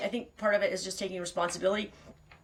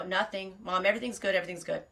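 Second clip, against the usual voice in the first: mock reassurance, as kids hiding trouble from Mom; covering-up voice. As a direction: imitate kids hastily covering up. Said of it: "everybody's voice changes and everything".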